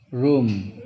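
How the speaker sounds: "room" with double O read as U; long U sound. Shown as a demonstration. Teacher gives pupils a double O example, long U sound. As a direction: say "room" with a U, pitch falling. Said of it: "Double O pada".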